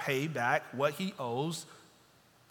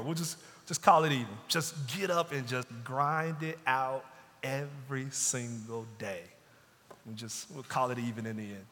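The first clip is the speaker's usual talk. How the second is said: stern master's terms. Retold or imitated. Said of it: "just for Jesus to say that".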